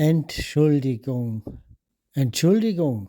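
Entschuldigung said the native German way, crisp "tsch"; native German accent. Shown as a demonstration. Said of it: "มาฟังสำเนียงของชาวเยอรมันแท้ๆกันค่ะ".

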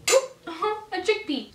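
high, slow amused oop; surprised laugh. Real, not acted. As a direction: laugh at a dropped chickpea. Eating salad on camera.

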